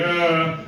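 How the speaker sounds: droning "ah" in place of a name; mock group mumble. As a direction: imitate a crowd fudging the name. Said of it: "just make this noise".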